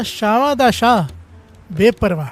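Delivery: solemn blessing. Acted. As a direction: stretch each word out like a boon. Guru's blessing proclaimed.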